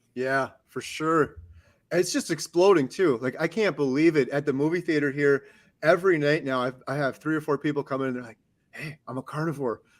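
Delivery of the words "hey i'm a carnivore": hushed, soft half-whisper, under the breath. Retelling what customers at the movie theater say: imitating customers half-whispering. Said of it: "Why are you whispering?".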